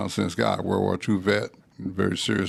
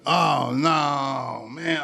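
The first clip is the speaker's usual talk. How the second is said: a higher cry of dismay, then trailing off; mock dismay; 4 semitones higher, much slower than usual. Oklahoma coach spotting the rival coach, mock alarm. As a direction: sell the coach's sudden alarm.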